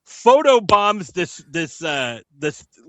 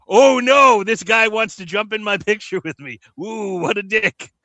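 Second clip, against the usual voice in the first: mock annoyed; 4 semitones higher, 4 dB louder than usual. Mock-annoyed reaction of the photo-taker.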